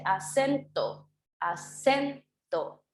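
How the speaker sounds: "acento" drawn out slowly, the "cen" carrying the voice; stress on acento's middle syllable. Shown as a demonstration. Teacher showing pupils where the voice falls, slow stressed "a-CEN-to". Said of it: "dónde se cargaría la, la, la voz en la palabra acento".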